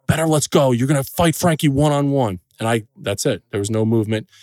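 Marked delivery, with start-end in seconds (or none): 0.0-2.4 father's order, raised and higher; retold loud command. Father ordering his scared son to fight, retold loud command. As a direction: bark the order like an impatient father. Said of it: "really, really loud".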